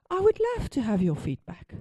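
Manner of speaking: falsely polite yes; fake eagerness. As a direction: put on a brave, insincere smile. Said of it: "lying through my teeth".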